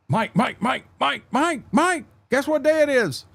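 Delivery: high, eager sing-song call; excited calling. Real, not acted. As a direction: call out to him, bursting with excitement.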